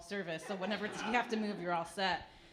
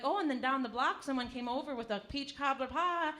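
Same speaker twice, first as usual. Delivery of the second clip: grandmother voice; 5 semitones higher than usual. Retold or imitated. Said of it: "And they're like".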